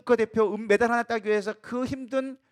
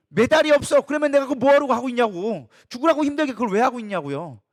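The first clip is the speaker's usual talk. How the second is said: louder, higher mock protest; imitated exasperated protest; 4 semitones higher, 5 dB louder than usual. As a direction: act out an athlete asking why bother. 믿음 없는 선수의 항변을 흉내. (따져 묻듯 항변하는 흉내)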